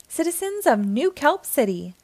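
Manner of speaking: a proud address to the crowd; lightly voiced public announcement; announcing. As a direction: call out like a speech opening. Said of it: "announced SpongeBob over the microphone".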